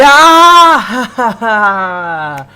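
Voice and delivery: loud laugh breaking through stammered words; can't hold back the laughter, stumble through; nervous laughing fit. Acted. Waiter Zach laughing on seeing his coworker, stammering.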